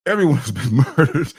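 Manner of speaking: laughing mid-sentence. Real, not acted. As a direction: break into a laugh while saying it. Repeats twist, laughing.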